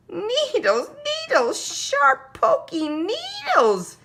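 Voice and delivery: very high, loud yell, slowing at the end. A narrator's reading. Little brother yells about the porcupine hug, very high loud yell. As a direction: cry out like a kid who got poked. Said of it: "yelled Tate".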